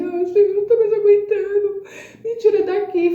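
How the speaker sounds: high, tearful plea breaking into a cry; retold crying prayer. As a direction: cry out to the Lord, at the end of your rope. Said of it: "e comecei a chorar". (súplica chorosa e aguda)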